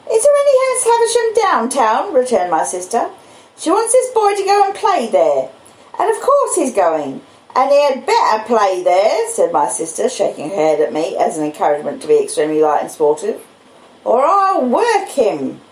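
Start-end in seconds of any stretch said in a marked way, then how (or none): 0.1-9.3 high, sharp scolding woman; the stern older sister bursting in; much higher, forceful sister; sister's voice. Acted. Mrs Joe declares. 14.0-15.6 high, sharp scolding woman; the stern older sister bursting in; much higher, forceful sister; sister's voice. Acted. Mrs Joe threatens.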